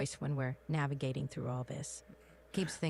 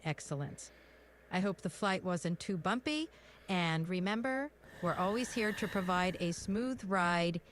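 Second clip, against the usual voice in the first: British first officer signing off; British in-flight announcement; British accent. Shown as a demonstration. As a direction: thank the passengers in a polite British accent. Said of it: "even when we're just practicing our accents".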